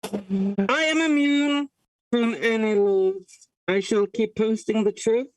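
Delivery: talking into a mug; muffled, echoing mug voice; into a cup. Pretend. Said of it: "I'm leaning over, talking into a mug".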